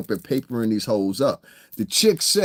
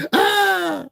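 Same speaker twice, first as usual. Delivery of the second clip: high laughing sigh. Real, not acted. Tail of the laughing fit.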